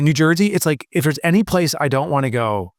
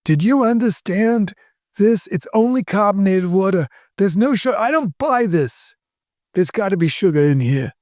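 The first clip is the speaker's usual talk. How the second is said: put-on old person; 8 semitones higher than usual. Mocking own ingredient-reading to co-host as an old person. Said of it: "how old you sound".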